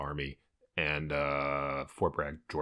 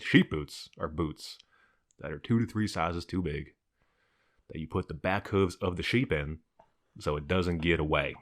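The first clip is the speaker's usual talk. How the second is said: slow, deliberate Southern drawl; Southern accent; slower than usual. Retold or imitated. Son imitating his dad's bedtime story, slow Southern accent. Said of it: "spoke from a Southern accent".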